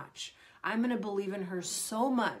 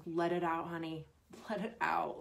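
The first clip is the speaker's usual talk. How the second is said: soothing parent; 3 semitones lower than usual. Retold or imitated. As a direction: gently coax the child to release it. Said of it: "then you just go".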